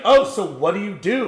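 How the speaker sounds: high, loud, bubbly fake question; overly eager camera voice; fake small talk. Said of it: "I don't talk like this to people".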